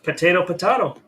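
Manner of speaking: "Potato, potato" as po-TAY-to, po-TAH-to; contrasting pronunciations. Shown as a demonstration. Shrugging off the homage debate, "Potato, potato" said two ways.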